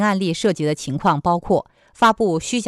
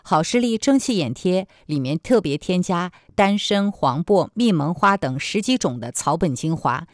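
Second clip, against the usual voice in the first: upbeat hard-sell ad read; infomercial. Acted. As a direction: pitch the product like a TV shopping host. Ad read within news programme.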